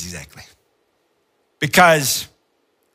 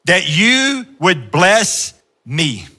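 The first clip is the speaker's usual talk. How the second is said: earnest plea; 4 semitones higher, 4 dB louder, much slower than usual. Acted. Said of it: "he says this".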